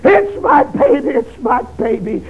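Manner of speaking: mother's wailing cry, high and broken. Retold or imitated. Grieving mother crying over the casket, high and breaking. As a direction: voice cracking on baby. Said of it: "she would cry".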